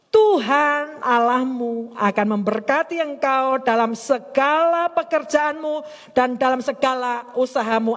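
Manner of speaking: slow, weighty verse reading; scripture recitation. Acted. Preacher reciting God's promise to the congregation, scripture recitation. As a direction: proclaim the promise slowly, drawing out the words.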